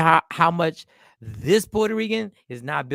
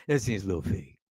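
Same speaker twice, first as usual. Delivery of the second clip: a low, hushed hint of a doubting critic; mock skeptic; 7 semitones lower than usual. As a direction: play the suspicious commenter sniffing out a fake. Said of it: "He was like".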